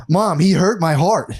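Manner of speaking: put-on high, slow whiny kid voice; mock tearful child; crying kid. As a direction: imitate a hurt little boy, drawn out. Kid crying to mom, retold.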